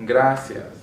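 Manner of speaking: gracias with a firm stress on GRA; GRA-cias, hit the first syllable; penultimate stress. Shown as a demonstration. Teacher repeating examples after the rule, penultimate stress. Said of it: "stress on the second to last syllable".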